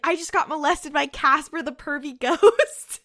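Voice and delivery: mildly hysterical imitation; mock screaming complaint. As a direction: retell it as a hammed-up cry of outrage. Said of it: "she starts screaming".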